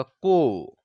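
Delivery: "को" as one drawn-out syllable; blended k-o. Shown as a demonstration. Teacher joining क and ओ, sustained "को". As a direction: run क and ओ together into a long "को". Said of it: "दोनों का एक साथ उच्चारण होगा".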